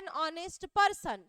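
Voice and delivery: very slow, deliberate model phrase; slow teaching model. Shown as a demonstration. Teacher slowly showing the an before honest. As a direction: stretch each word for the class. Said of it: "ऑनेस्ट का आपका क्या हो रहा है?".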